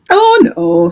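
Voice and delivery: shocked high "oh, no"; high horse exclaiming. Acted. Horse answers the doctor's question, high innocent exclamation.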